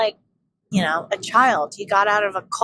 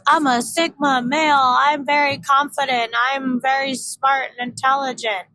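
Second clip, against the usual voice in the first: cocky sigma male; 4 semitones higher than usual. Retold or imitated. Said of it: "this is how he talks when he says it too".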